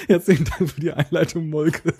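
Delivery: laughing through the words; can barely hold in a laugh; cracking up mid-line. Real, not acted. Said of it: "Ich hab jetzt so einen Lachflash gerade".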